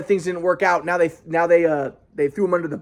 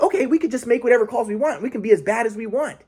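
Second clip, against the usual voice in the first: higher-pitched imitation of parents; lightly mock the parents agreeing, pitched up; 5 semitones higher than usual. Voicing parents gleefully taking licence.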